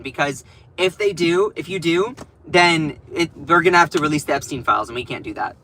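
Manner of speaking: lightly voiced panicky aide, rushed in places; a hint of a nervous staffer begging Johnson; mocking the White House. Mocking Trump's White House ordering the Speaker, lightly mimicking. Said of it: "White House is literally saying".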